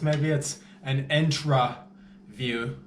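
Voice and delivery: intra said with a clear ah, in-trah; intra not intro. Shown as a demonstration. Vampire insisting on saying intra view. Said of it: "Intra, not intro".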